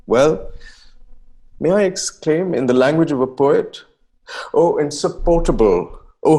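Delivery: put-on earnest, theatrical reading of an old letter; formal, heartfelt period letter reading; dramatic letter reading. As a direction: read it as the young poet pouring out his heart. Reads a second letter aloud.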